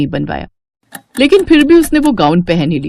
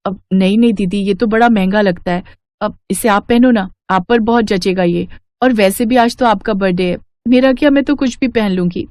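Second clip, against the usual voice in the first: meek Meena. Acted. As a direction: shyly refuse the gift. Narrator voices meek Meena. (विनम्र, धीमी आवाज़ में मना करती मीना)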